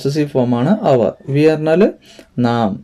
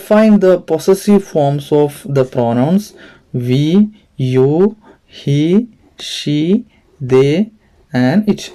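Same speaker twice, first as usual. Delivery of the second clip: slow, deliberate exercise reading; textbook read-aloud; much slower than usual. Real, not acted. Teacher reading an exercise to pupils, slow and measured. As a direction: read it out slowly, word by word.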